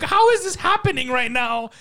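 retold exasperation. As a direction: act out an exasperated teammate under pressure. Retelling his own exasperation mid-game.

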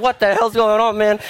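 exasperated. Retold or imitated. Stalled learner yells at the car, high exasperated. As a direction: throw it up in exasperation. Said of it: "And I'm like".

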